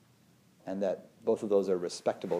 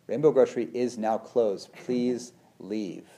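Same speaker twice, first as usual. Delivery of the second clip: store announcer; 3 dB louder than usual. Retold or imitated. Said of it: "they're like".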